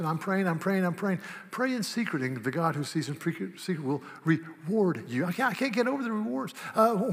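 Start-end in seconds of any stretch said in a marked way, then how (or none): 0.0-1.2 show-off prayer. Acted. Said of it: "don't stand there and say".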